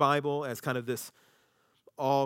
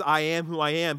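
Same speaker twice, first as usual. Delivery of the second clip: louder, ringing declaration; proclaimed; 7 dB louder than usual. Acted. Preacher proclaiming God's name, loud and bold. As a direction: announce it to the hall.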